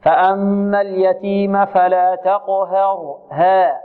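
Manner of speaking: تقهر with ha wrongly tilted toward he; slow recitation, over-thinning ha in تقهر to an e; tilted haa. Shown as a demonstration. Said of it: "تقليل، لا".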